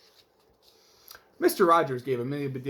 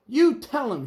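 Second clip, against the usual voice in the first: high, loud cheering shout; the crowd cheers Amelia on, loud and high; 10 semitones higher, 6 dB louder, slower than usual. Acted. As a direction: egg her on from the crowd. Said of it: "shouted the crowd".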